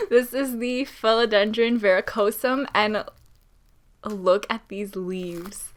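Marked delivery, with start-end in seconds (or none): 0.1-2.7 a trembling, teary voice; shaky with nerves. Real, not acted. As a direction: let the voice quiver with emotion. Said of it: "I don't know why I'm shaking so much".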